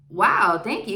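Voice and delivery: overflowing gratitude, played big; loud dramatic wow. Thanking the teenage clerk for the rice, loud dramatic wow. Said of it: "most appreciative, most dramatic, most loud wow ever".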